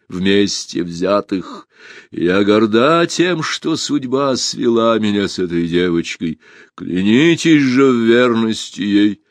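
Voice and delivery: slow, weighty, emphatic address; solemn proclamation. A narrator's reading. Empress naming Alisa her successor, solemn proclamation. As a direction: declare it slowly to the assembled hall.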